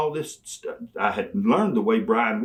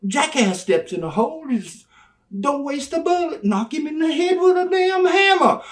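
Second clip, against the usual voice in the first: very high, louder jeering yell; yelled insult; 4 dB louder than usual. Retold or imitated. Manager repeating the jackass line to Brian, high jeering yell. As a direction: jeer and top it off.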